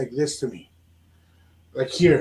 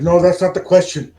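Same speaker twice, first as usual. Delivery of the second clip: voice changes suddenly; 7 dB louder than usual. Retold or imitated. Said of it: "your voice changed quickly".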